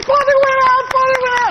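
mock cheering. Crowd clapping as he falls.

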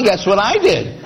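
ordinary talk, nothing marked

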